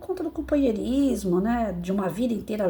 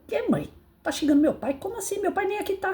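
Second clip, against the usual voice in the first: put-on higher, incredulous boy's question; surprised son; 10 semitones higher than usual. Young son questioning his mother, higher surprised voice. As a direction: sound baffled as the young son.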